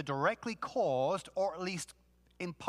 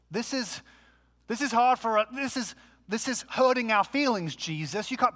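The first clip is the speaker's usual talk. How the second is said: mock wounded complaint; 3 semitones higher than usual. Offended Christians criticizing Jesus, mock hurt. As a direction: plead as if mildly traumatized, building to an exaggerated protest.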